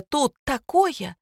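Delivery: high, drawn-out alarm, lightly acted; slow, high cry of urgency; frantic wail. A narrator's reading. Майя alarms her friend by phone, wailing a little. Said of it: "завопила Майя".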